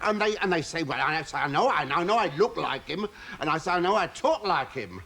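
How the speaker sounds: a hint of nervous Frankie Howerd; lightly voiced fussy comic, flustered; light Frankie Howerd take, bashful. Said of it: "doing a sort of Frankie Howerd act".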